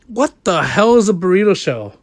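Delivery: outraged retelling. Retold or imitated. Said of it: "most offended, outrageous look".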